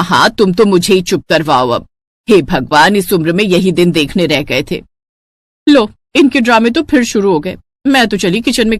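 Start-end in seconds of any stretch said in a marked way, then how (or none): 0.0-4.8 put-on lower, weary old mother-in-law voice; tired elderly woman complaining at the table; grumbling mother-in-law. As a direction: grumble like a fed-up saas.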